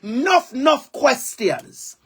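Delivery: drawn-out Jamaican "nuff"; "Nuff" said slowly as a Jamaican would; Jamaican dialect. Shown as a demonstration. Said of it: "That's a Jamaican dialect".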